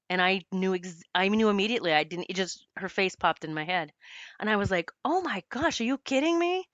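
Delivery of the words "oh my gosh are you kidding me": high, squealing oh my gosh; a stunned squeal of surprise, pitched way up; shocked disbelief. Retold or imitated. Retelling her shock at mentor.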